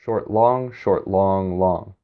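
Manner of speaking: each "short" quick, each "long" held; beaten rhythm. Shown as a demonstration. Teacher counting the five beats of the line, quick and held. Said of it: "and then five beats".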